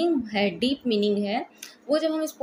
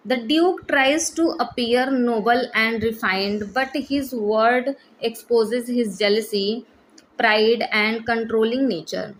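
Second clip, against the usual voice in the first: slow, even read-aloud of study notes, word by word; slow dictation reading; 3 dB louder, much slower than usual. Shown as a demonstration. Teacher dictating notes to exam students, slow and deliberate. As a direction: dictate each phrase slowly so students can copy.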